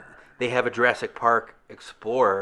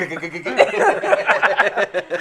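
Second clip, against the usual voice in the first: rapid "k-k-k-k" clicking noise; stuttering mechanical clicks; imitated coaster clicking; 6 semitones higher than usual. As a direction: mimic a roller coaster ratcheting uphill. Imitates the coaster climbing after "Great.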